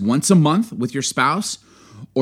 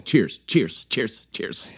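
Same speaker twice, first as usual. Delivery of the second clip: quiet; 3 semitones lower, 5 dB quieter, much slower than usual. Shown as a demonstration. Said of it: "That's how we do it".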